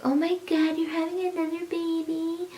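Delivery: high, soft imitated disbelief; mock disbelief. People hearing of another baby, imitated disbelief. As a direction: play the people gasping in disbelief. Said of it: "some people were like".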